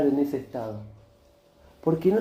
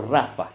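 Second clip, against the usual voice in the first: "Rafa" stressed on the first A, RA-fa; stress on first syllable; 4 semitones lower than usual. Shown as a demonstration. Preacher likening the word to a boy's name, "Rafa" stressed RA-fa. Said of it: "pero no se dice Rafa".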